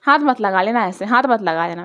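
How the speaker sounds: loud, stern father's warning; papa's warning. Retold or imitated. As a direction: warn her sternly like a father. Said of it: "my papa was like". (पापा की सख्त चेतावनी)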